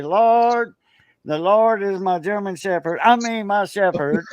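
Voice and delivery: high mock prayer voice; saying grace. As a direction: pretend to say grace, hammed up. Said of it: "Say grace".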